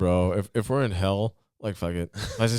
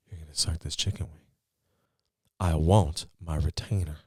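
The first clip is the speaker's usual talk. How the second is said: Matthew McConaughey. Acted. Comic quoting Killer Joe, unhurried understated menace. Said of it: "Some Killer Joe".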